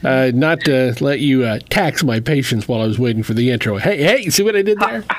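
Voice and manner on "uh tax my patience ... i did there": embarrassing dad joke. Acted. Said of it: "that's a classic dad joke".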